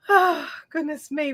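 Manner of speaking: fighting back tears; choked up. Real, not acted. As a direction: voice catching with real emotion. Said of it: "I'm trying not to cry".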